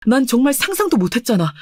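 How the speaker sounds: ordinary talk, nothing marked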